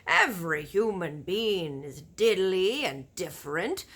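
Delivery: big friendly giant warning about cannibal giants; BFG giant voice. Acted. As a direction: boom out the giant's grim warning. Giant's voice in story.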